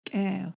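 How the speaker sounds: "cow" opening on an airless popped k; clicky K. Shown as a demonstration. Teacher gives a clicky K example, glottal K. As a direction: click the k of "cow", then glide the vowel. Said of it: "Clicky K as in".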